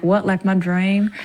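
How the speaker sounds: put-on in the film's accent, E's leaning toward I's; film character's accent. Actor recalling the co-star's favourite line, in the film accent. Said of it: "in that accent".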